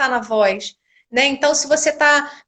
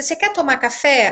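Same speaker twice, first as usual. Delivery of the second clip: pitch drops down on café. Teaching question intonation in Portuguese: falling pitch on café. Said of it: "A inflexão é descendente no final".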